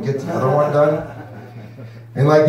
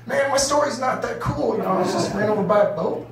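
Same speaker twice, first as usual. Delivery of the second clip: mock humble reply; 7 semitones higher, 3 dB quieter than usual. His imagined reply to vets.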